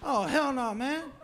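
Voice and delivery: squealing high and fast with delight; excited high voice. Retold or imitated. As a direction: voice shooting way up in excitement. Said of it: "Their voice goes up, like, twelve octaves".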